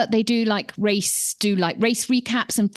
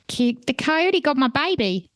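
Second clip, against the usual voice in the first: high, slow mock wail of a distraught mother; film quote; 4 semitones higher than usual. Host quoting the dingo film line as a mock wail. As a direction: ham up the famous film line, slowly. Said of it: "Do you remember that film".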